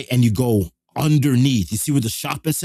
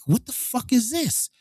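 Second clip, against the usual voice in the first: mock outrage; 12 semitones higher, 4 dB quieter than usual. Outraged at the empty show.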